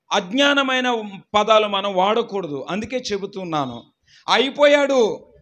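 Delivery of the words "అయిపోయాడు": drawn-out "అయిపోయాడు" as the wrong word; slow quoted wrong word. Shown as a demonstration. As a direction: stretch out "అయిపోయాడు" slowly. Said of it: "ఇది తప్పు".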